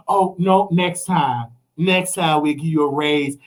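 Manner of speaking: a dismissive boss brushing off the ask; boss stalling. Retold or imitated.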